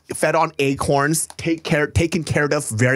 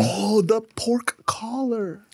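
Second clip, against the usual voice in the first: whispering; 8 semitones higher, 4 dB quieter, much slower than usual. Real, not acted. Admiring the meat, hushed.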